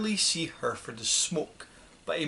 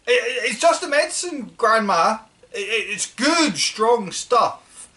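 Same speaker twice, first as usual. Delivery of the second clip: put-on higher, louder, fast stammering boy; nervous boy; 7 semitones higher, 7 dB louder than usual. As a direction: rush out the excuse, stumbling on every start. George nervously reassures shrieking grandma.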